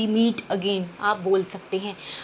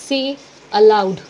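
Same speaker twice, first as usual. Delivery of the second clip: louder and very slow, each word drawn out; loud slow model answer; 8 dB louder, much slower than usual. Shown as a demonstration. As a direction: project it to the class like a teacher. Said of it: "क्या कहेंगे?". (ज़ोर से और धीरे-धीरे, शिक्षक की तरह)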